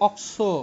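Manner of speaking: অক্সো said clearly as অক-সো; pronunciation of অক্সো. Shown as a demonstration. Teacher shows how CO is pronounced, clear pronunciation. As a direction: model অক্সো for the class. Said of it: "এটাকে আমরা কি উচ্চারণ করব".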